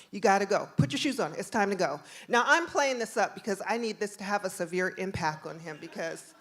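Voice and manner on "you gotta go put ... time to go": firm, louder parental orders; stern mother. Retold or imitated. Mom sends son off with officer, stern orders. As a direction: lay down the law, mildly acted.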